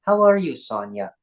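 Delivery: mild English accent imitation. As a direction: ask it like a cheery English doctor. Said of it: "like, an English accent".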